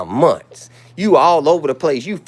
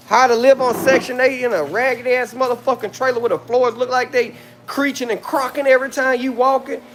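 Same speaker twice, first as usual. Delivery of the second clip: angry rant; 6 semitones higher than usual. Real, not acted. Ranting insults at a rival on live.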